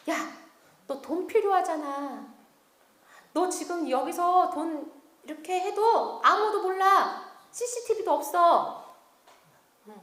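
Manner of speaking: lightly voiced tempter, drawing words out; tempting devil. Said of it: "마귀가 갑자기 싹 생각을 넣어주는 거예요". (은근히 꼬드기는 마귀 목소리)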